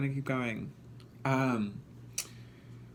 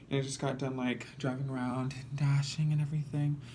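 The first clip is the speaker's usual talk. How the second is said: out of breath; 3 semitones higher than usual. Real, not acted. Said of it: "I don't know why I'm so out of breath".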